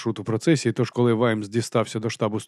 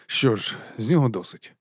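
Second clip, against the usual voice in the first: plain reading voice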